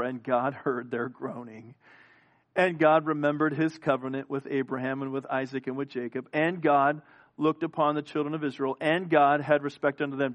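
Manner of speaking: God said firmly each time; stress on God. Shown as a demonstration. Preacher stressing God for the congregation. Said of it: "what I emphasized every time".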